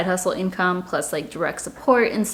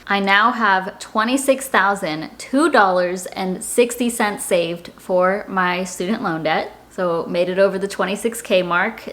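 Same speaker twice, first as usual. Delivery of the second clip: ordinary talk, nothing marked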